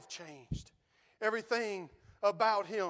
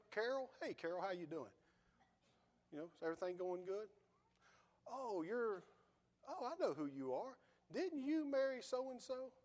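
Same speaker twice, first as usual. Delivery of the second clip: mock chatty call; 2 semitones lower, 9 dB quieter than usual. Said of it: "That's not what you do".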